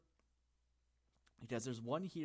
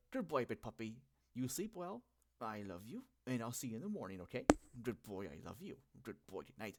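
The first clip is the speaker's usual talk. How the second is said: put-on baby talk. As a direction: coo goodnight to a dog. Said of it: "kinda, like, baby talk to them".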